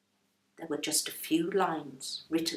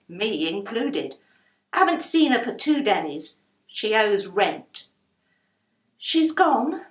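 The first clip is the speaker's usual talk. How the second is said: louder grumbling landlady; complaining about unpaid rent; a hint of a put-upon landlady; aggrieved landlady; 5 dB louder than usual.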